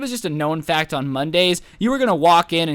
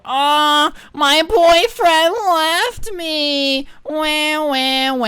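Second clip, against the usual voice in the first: high, drawn-out mock wailing; hammed-up boo-hoo of the dumped teacher; mock crying; 10 semitones higher, 5 dB louder, much slower than usual. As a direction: whine it like a fake crybaby.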